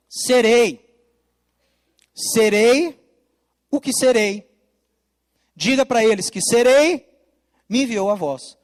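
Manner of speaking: loud, spaced-out divine declaration; voice of God. Acted. God declaring his name to Moses, loud and spaced. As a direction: let each serei ring out with long pauses.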